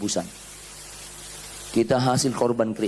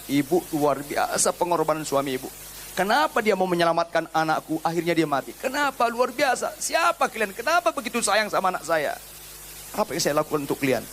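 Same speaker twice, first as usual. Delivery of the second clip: grateful mafia boss; 5 semitones higher than usual. Acted.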